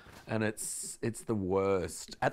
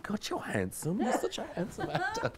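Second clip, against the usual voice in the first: high, giggly mock swooning; laughing at his own crush. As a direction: gush over him while cracking up. Retold swooning thought, cracking up.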